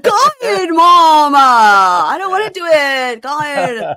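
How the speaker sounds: put-on high, whiny sulky teen through a retainer; angry teenager with a retainer. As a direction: pout it out like a bratty teen. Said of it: "like, an angry teenager with a retainer".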